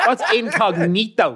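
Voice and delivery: What's incognito? asked slowly through laughter, incognito stretched out; slow confused question. Retold or imitated. Southside listener mocks the fancy word, slow and laughing. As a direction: spell out the strange word incognito slowly, puzzled. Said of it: "People from the south side listening going".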